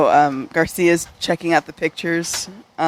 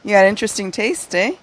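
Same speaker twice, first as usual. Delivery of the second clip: put-on Spanish accent; 4 semitones higher than usual. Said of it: "Can you do a Spanish accent?".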